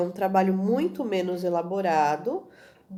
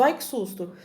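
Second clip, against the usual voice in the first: a quick startled "Ai, que susto!", pitched up a little; mock surprised gasp of a speaker who just got scared; startled cry; 4 semitones higher than usual. Shown as a demonstration. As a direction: show a sudden fright in the voice. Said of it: "levou um susto".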